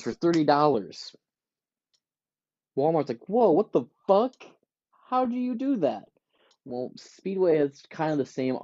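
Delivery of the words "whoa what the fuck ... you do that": high, stunned whoa; shocked disbelief. Retold or imitated. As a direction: react like a rival caught off guard. Walmart shocked at Speedway.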